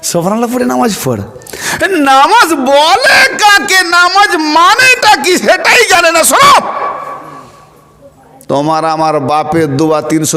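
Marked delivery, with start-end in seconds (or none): 0.0-1.2 quick, laughing mockery of an easy faith; mocking laugh. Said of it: "যেন ইসলাম সহজ". 1.8-6.7 much higher, louder, slow scolding cry; roaring rebuke from the pulpit; fiery preaching shout. Real, not acted. Preacher erupts at ignorant listeners.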